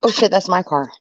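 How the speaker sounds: tipsy, a little loose. Real, not acted. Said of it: "I'm getting drunk".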